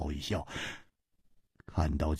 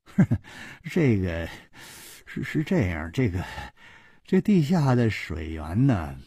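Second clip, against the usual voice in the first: 陪着笑; 2 semitones higher than usual. Acted. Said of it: "小潘陪着笑说".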